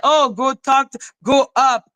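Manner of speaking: mocking quote. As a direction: mimic someone pushily urging you on. Mocking the person pushing her.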